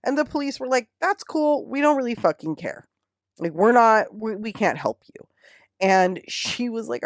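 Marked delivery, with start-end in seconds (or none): 1.0-5.3 raised, careless brush-off voice; mock dismissive cop. Cops brushing off a stalking report, mock dismissive. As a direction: shrug it off like a bored cop. Mocking the police response.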